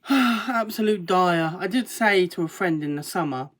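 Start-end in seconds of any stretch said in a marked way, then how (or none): 0.1-1.6 slow, weary, exasperated; exasperated drawl. Real, not acted. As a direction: drag it out in despair. Sighing over the goalkeeper situation.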